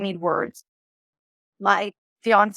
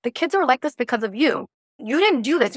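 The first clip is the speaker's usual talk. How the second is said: higher, accusing interrogation; mean nagging; 3 semitones higher than usual. Retold or imitated. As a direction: nag him like a mean controlling wife. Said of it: "The wounded masculine is very mean".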